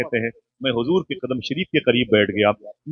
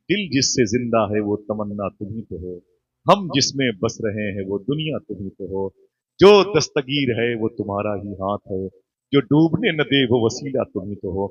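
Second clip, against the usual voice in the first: poem recitation; 3 semitones lower than usual. Acted. Recites a devotional couplet. (धीमे, भावपूर्ण अंदाज़ में शेर पढ़ना)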